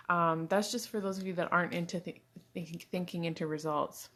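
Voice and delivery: tripping over repeated words; stuttering. Real, not acted. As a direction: stumble and restart the words. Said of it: "I'm stuttery".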